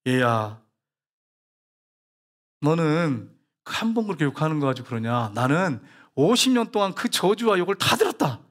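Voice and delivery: lightly voiced God, measured rebuke; God's voice. God rebuking the pastor at evening prayer, lightly voiced. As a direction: speak as a father reproving his child. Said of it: "하나님이 그러시더래요".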